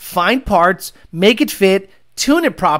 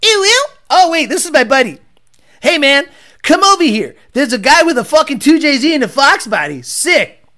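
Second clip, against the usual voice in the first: high, nasal-free squeal of a hyped car guy; mock car bro; 7 semitones higher, 3 dB louder than usual. Mocking a car fan calling his buddy over, high and loud. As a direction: ham up a car bro spotting a 2JZ.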